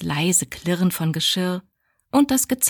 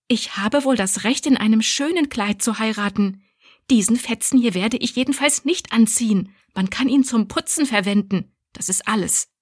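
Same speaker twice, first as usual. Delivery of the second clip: defiant; 4 semitones higher than usual. Acted. Abby defiantly refuses the dress.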